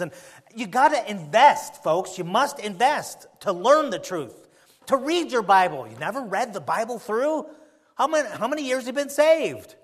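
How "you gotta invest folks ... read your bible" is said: louder, slow, each word weighted; insistent preacher push; slow emphatic exhortation. Real, not acted. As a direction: lean into every word.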